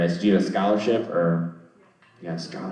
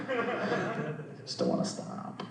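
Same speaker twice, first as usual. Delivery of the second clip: laughing confession; 13 semitones higher, 13 dB quieter, slower than usual. Real, not acted. Laughing at dragging it out.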